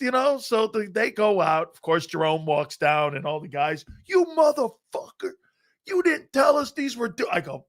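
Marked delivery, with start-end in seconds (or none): 4.0-7.3 high raised mock shout; mock angry teammates. Teammates shouting at him in mock outrage. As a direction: yell like betrayed teammates.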